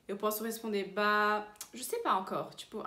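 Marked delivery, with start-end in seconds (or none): 0.9-2.6 hesitant. Shown as a demonstration. Teacher answers tonight's invitation, hesitant. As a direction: stall on "Bah", undecided. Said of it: "é pra expressar uma hesitação".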